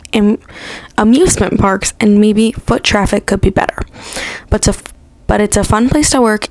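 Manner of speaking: words slurred by a retainer; wearing a retainer. Real, not acted. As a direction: read aloud with whitening strips in. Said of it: "so that's why I sound like this".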